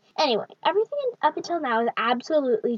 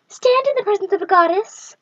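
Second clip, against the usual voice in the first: commanding goddess; 6 semitones higher, 7 dB louder than usual. Acted. Goddess commands the captive boy.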